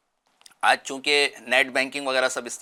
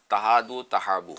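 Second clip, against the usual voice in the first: hadith recitation; 4 semitones lower, slower than usual. Shown as a demonstration. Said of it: "حدیث پاک میں فرمایا گیا".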